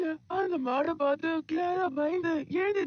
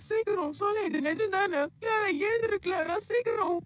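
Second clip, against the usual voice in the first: high, tearful, breathless joy; almost crying with happiness; overjoyed disbelief; 5 semitones higher than usual. Acted. Grandmother sees Clara stand, half sobbing with joy.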